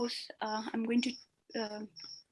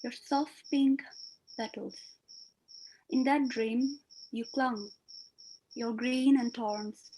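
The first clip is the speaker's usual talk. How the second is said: poetry recitation; 7 dB quieter than usual. Acted. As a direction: let each line breathe, gently. Recites her own poem.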